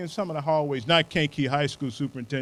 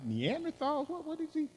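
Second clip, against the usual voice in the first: mock disbelief; 4 semitones higher, 10 dB quieter than usual. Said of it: "You say".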